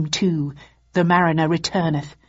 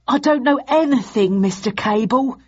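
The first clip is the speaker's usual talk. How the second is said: high, loud whiny plea; whining; 6 semitones higher, 3 dB louder than usual. Acted. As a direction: whine it like a frightened weasel. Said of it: "he whined".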